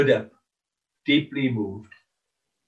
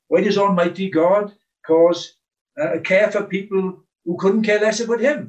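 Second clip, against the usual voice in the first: louder, pleading questions rising in wonder; fervent preaching cry; 3 semitones higher, 6 dB louder than usual. Acted. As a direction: cry out each why to the hall in awe.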